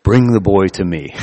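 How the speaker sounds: lightly voiced Vader, low menace; Darth Vader voice. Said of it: "He says in his Darth Vader voice".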